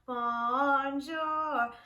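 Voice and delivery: Bonjour echoed again in French; French greeting. Shown as a demonstration. Teacher repeats Bonjour for students. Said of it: "Let's do French".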